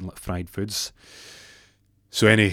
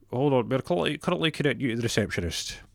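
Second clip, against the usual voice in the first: higher recorded-operator voice; automated phone message; 4 semitones higher than usual. Acted. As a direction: announce the transfer like a phone system.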